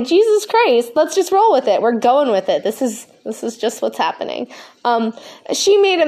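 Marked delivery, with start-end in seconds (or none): 0.0-1.8 stoned. Real, not acted. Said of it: "Sorry, I'm so high".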